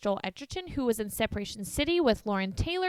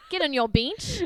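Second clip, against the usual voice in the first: put-on New Zealand accent, higher pitch; 4 semitones higher, 3 dB louder than usual. Retelling an instruction to lie on their bench, imitating a New Zealand accent. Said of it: "you lost the N in there".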